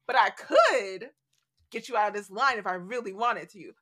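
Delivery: villain threat. Retold or imitated. Villain threatens people waiting in line, mild menace. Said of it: "because a villain would be like".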